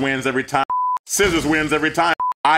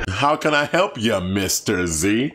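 character voices; 2 semitones higher, slower than usual. Acted. Voicing game characters' dialogue.

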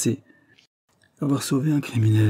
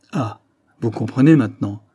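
anguished cry; 4 dB louder than usual. Acted. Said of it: "s'écria Gaston en se dressant".

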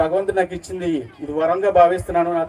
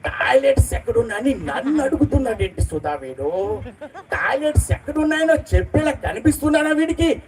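lightly voiced higher, mocking film villain; SJ Suryah mimicry; 5 semitones higher than usual. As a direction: do the villain's teasing sing-song rant, a bit higher. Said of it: "ఆయన voice ఇప్పుడు ఏం చేస్తాను".

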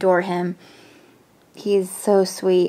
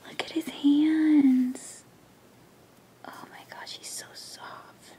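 tender whisper; 6 semitones higher, 5 dB quieter than usual. Real, not acted. Holding the doll's tiny hands, tender whisper.

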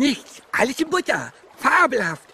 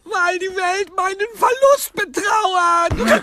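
tearful wail; 6 semitones higher, slower than usual. Acted. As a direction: sob it to the heavens. Sid heartbroken after being dumped.

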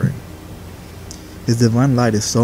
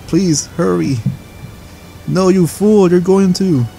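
urgent shout; 7 semitones higher than usual. Acted. Apprentice frantically shouting at master. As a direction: yell it before it's too late.

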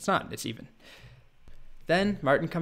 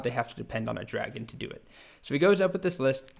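ordinary talk

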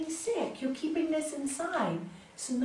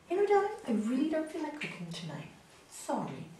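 straight, light; 2 semitones higher, 4 dB quieter, faster than usual. Retold or imitated. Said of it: "I'm gonna tell them straight".

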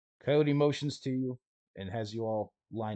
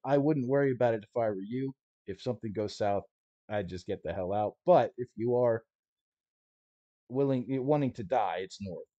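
a hint of a no-nonsense smuggler laying down rules; lightly voiced stalker guide, matter-of-fact; gruff guide Coyote; 3 semitones higher, 4 dB louder than usual. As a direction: tough guide briefing his clients, half-acted. GM plays Coyote answering questions.

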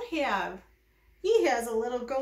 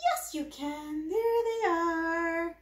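delighted gasp; 5 semitones higher than usual. Acted. Praising baby finding eyes.

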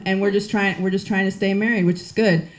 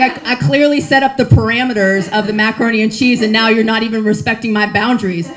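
louder, pointed mock lecture; mock stern scolding; 5 dB louder than usual. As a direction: lay down the law, half joking. Scolding husband.

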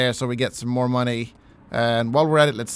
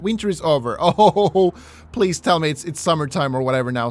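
ordinary delivery

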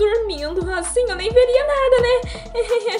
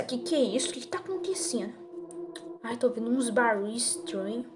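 nervous night vlog whisper; 7 semitones lower, 8 dB quieter than usual. Acted.

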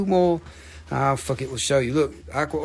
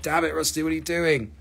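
half-hearted whine growing louder; mock exasperated viewer; 5 dB louder than usual. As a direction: start grumbling and end in a playful wail. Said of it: "be like".

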